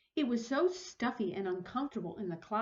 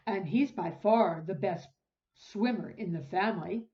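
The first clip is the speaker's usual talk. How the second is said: lightly voiced husband; 3 semitones lower, 4 dB louder than usual. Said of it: "her husband added".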